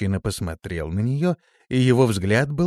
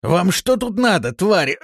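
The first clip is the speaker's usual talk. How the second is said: loud, high-pitched, angry demand; angry challenge; 11 semitones higher, 6 dB louder than usual. Acted. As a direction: lash out at the intruders. Cornered man challenges attackers.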